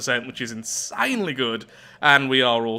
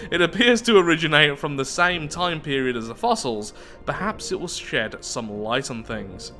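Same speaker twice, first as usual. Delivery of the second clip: measured read, slowing to a close; storyteller reading out a report; event text narration. Acted. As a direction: narrate it deliberately, falling away at the end. Reads event text aloud.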